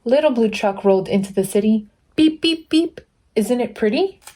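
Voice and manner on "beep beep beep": high sing-song beep beep beep. Acted. Reader honking for the little truck, high and bright. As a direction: toot it like a cheerful little horn.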